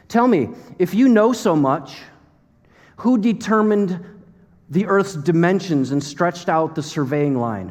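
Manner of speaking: commanding rhetorical questioning; God questioning Job. Acted. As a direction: challenge him with emphatic, drawn-out words. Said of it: "God is looking at a human being and he says".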